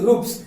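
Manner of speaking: रूप्स, with a dental s at the end. Shown as a demonstration. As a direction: say रूप्स, ending in a plain s, not sh. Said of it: "डंटी सा है ना?".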